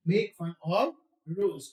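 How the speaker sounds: each word stretched out for learners; slow dictation pace, word by word. Shown as a demonstration. Teacher says the phrase very slowly for students to copy. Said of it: "बोलिएगा".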